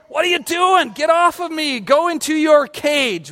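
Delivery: mock scolding. Scolding the puppy chewing his arm.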